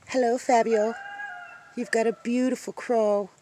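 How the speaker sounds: soft, unhurried praise for a pet; tender greeting. Real, not acted. Owner praising her rooster's crow, soft and tender. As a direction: talk softly and fondly to a rooster.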